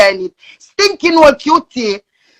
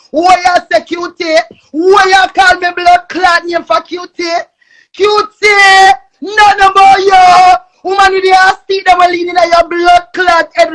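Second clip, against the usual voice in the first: shouting furiously at a rival; furious yelling at Cutie; angry shout; 4 semitones higher, 4 dB louder than usual. Real, not acted. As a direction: yell it, raging and insulted.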